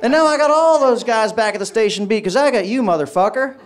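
high-pitched gloating cop impression; triumphant gloating. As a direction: crow "gotcha" at your victim. Officer crows over successful prank.

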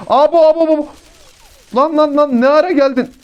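startled shout. Real, not acted. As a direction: yelp as an enemy jumps you. Enemy suddenly appears behind him. (ani düşmana şaşkın bağırış)

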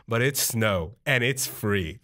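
low, slow deadpan dad; lightly voiced dad. Dad justifying the free snow to his son, low deadpan. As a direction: drop low and draw it out, mildly matter-of-fact.

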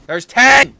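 loud, high burst of surprise; sudden high yell; excited shout. Real, not acted. Excited count of ores found.

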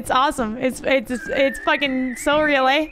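playing the friendly Canadian; Canadian accent. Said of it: "she, the Canadian".

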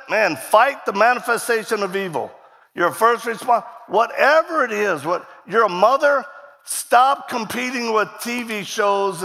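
rally the crowd to action; full-voiced sermon call to action; preaching.

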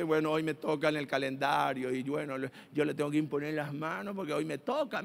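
low, quiet mock grumble of duty; reluctant minister. Church member on the prayer rota, low reluctant mock grumble. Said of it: "porque dice".

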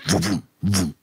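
pulsing vroom noises like a heartbeat; vocalised pounding heartbeat; imitated throbbing pulse. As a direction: mimic a heavy throb with your mouth. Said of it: "It's like a heartbeat".

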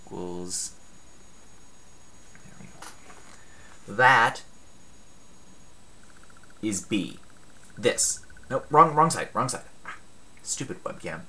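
talking around a marker held in teeth; marker in mouth. Real, not acted. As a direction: speak with a pen in your teeth. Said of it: "I can't talk with a marker in my mouth".

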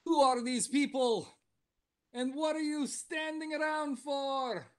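high-pitched, hammed-up Russian accent; heavy Russian accent. Game master voices grumpy giant Polya confronting strangers, Russian accent. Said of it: "relatively heavy Russian accent".

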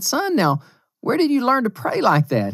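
gentle father. Retold or imitated. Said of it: "And I said".

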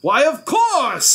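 high, drawn-out delighted cry; light up with a sudden idea; triumphant royal glee; gleeful realization. A narrator's reading. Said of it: "he began laughing".

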